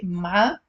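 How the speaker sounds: "ma'lame" broken into ma, la, me with pauses; spelled-out "ma'lame" in three beats; three separate syllables. Shown as a demonstration. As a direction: say "ma'lame" slowly, one syllable at a time. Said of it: "if it was female educated".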